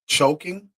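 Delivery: high, rising, stunned question; can't believe what he just read; shocked disbelief. Real, not acted. Shocked by choking claim.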